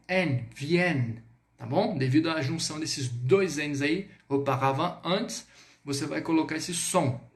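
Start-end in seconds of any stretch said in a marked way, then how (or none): 0.1-1.2 "viennent" with the N clearly sounded; slow "viennent" ending on a full n sound; sounded final N. Shown as a demonstration. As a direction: draw out "viennent", voicing its closing n. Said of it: "você vai pronunciar o N".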